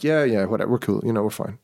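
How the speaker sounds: offhand, dismissive brush-off; cursory. Shown as a demonstration. Brushing off the feud, offhand and casual. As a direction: toss it away like it's nothing. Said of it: "it has to feel kind of just kind of cursory".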